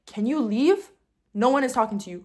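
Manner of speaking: curt, rising question then a firm dismissal; rude dismissal. Retold or imitated. Dancer telling creepy bouncer to leave, rudely. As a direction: tell him off with open rudeness. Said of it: "yes, I am being rude".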